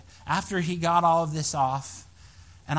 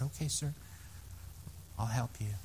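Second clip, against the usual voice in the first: soft reply; 5 semitones lower, 12 dB quieter than usual. Retold or imitated. Pastor answering softly.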